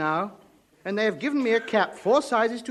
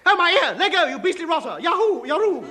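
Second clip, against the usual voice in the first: high yelping as his ear is twisted; pained yelps; 8 semitones higher than usual. Acted. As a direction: howl with comic pain. Ear being twisted by bully.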